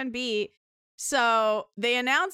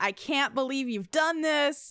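put-on furious, whiny, outraged tone; 3 semitones higher than usual. Retelling what Seth said in the match clip: imitating Seth whining. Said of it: "He's whining".

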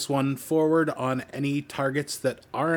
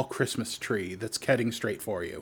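ordinary talk

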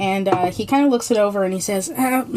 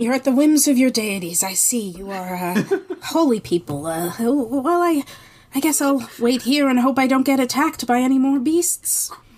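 put-on old man voice, much higher pitch; 4 semitones higher than usual. The game master voices a lost old man answering the players; lost old man character voice. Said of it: "I'm just an old man who got lost on his way home from the fair. / I'm just an old man who got lost on his way home from the fair. / I'm just an old man who got lost on his way home from the fair".

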